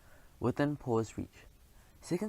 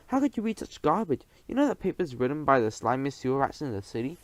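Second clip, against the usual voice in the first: indignant rant; 5 dB louder than usual. Acted. Outraged rant about rival paper.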